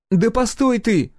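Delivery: high, drawn-out hail; calling out. A narrator's reading. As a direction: call after someone to stop. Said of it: "окликнула его Гюрза". (громкий протяжный оклик)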